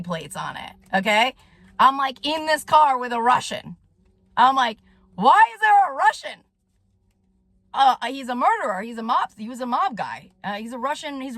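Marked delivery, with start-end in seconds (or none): 5.1-6.4 alarmed question. Retold or imitated. Alarmed in car with Russian.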